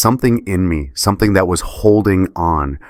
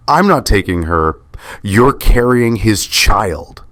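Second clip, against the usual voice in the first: yelling; 4 semitones higher, slower than usual. Acted. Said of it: "I'm yelling now".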